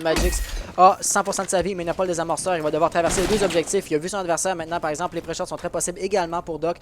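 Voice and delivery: brisk esports caster narrating the round; live play-by-play casting. Acted. Caster calling the round for the Twitch chat, brisk play-by-play. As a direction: call the action as it happens, steady and engaged.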